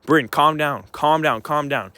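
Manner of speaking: a firm mock urge to calm down; urgent calming. Brother telling his sister to calm down, firm. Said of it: "And I was just like".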